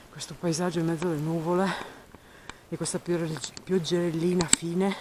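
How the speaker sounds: out of breath. Real, not acted. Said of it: "Scusate il fiatone".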